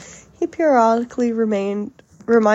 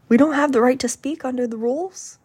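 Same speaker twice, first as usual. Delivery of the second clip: higher-pitched incredulous question; mock an affronted senator; indignant imitation rising in disbelief; 4 semitones higher, 4 dB louder than usual. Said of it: "very, very angry".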